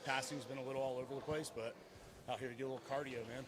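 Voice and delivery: winded, out of breath after a shift. Real, not acted. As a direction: talk while catching your breath. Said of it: "I'm really out of breath".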